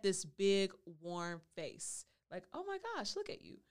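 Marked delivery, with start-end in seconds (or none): 2.5-3.6 high-pitched gushing quote; delighted greeting. Acted. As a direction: gush in a much higher voice. Acting delighted look at Smile.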